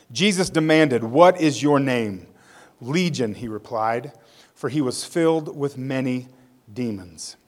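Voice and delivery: expressive, measured story narration; dramatic public Bible reading; scripture reading. A narrator's reading. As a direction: read the Bible story aloud with deliberate emphasis. Reads Bible story aloud.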